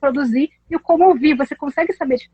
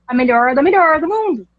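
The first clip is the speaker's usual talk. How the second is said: São Paulo countryside accent. Shown as a demonstration. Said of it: "com sotaque paulista do interior".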